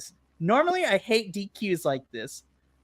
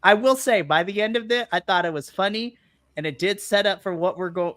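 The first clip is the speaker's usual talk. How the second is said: usual speaking voice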